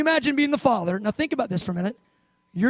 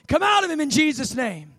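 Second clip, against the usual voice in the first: higher-pitched, showy command; mock exorcism command; 5 semitones higher, 3 dB louder than usual. Disciples going through the motions, mock commanding. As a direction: order it out with put-on force. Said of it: "they went through the motions of it".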